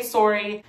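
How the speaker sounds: "sorry" with an "or" sound; Canadian "sorry". Shown as a demonstration. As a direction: round the first vowel of "sorry" to "sore". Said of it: "Do you actually say sorry?".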